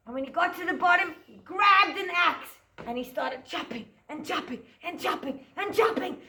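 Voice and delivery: put-on lively storytelling for small children; story narration. A narrator's reading. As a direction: tell it like a picture-book story to a class. Teacher tells Jack story.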